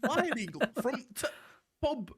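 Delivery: high, loud mock Yorkshire; broad Emmerdale voice with a clipped "t'"; Emmerdale Yorkshire accent. Doing an accent for friends, caricature Emmerdale Yorkshire. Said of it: "everyone from Emmerdale just sounds like that".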